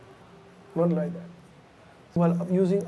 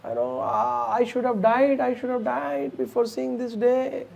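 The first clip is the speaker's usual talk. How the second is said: mock crying lament; 5 semitones higher than usual. Mantra making a big drama for Kaikeyi, mock lament. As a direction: wail it lightly, as put-on drama. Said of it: "Again, she started crying".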